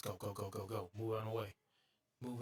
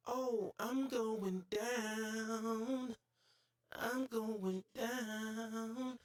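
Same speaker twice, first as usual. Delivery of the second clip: much higher, very slow drawn-out lament; dramatic wail; 10 semitones higher, much slower than usual. Real, not acted. Gamer falling off the level, slow dramatic wail. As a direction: stretch it like a falling hero.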